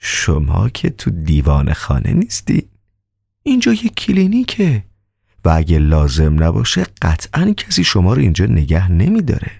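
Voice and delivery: calm. Acted. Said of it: "به آرامی گفت".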